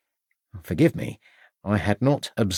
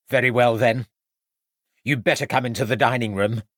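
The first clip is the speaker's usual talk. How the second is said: 1 sighed; 2 semitones higher than usual. A narrator's reading. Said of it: "sighed his wife".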